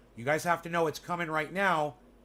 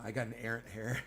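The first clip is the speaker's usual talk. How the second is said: soft poetic recital; 5 semitones lower, 7 dB quieter than usual. Shown as a demonstration. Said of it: "It's like poetry".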